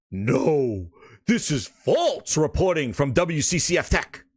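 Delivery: mocking quote. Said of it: "Bootleg Jez said".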